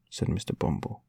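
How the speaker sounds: ordinary delivery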